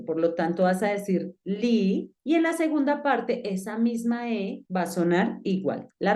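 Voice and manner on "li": "li" with a long ee; changed vowel. Shown as a demonstration. Teacher showing first syllable, "li" with changed vowel. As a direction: draw out "li" slowly as "lee". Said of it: "la vocal cambia".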